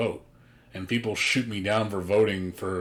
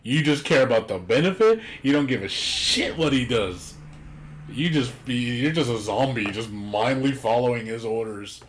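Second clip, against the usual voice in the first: loud, exasperated rant at a blind follower; hammed-up outraged tirade; mock rant; 3 semitones higher, 4 dB louder than usual. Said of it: "I'm like".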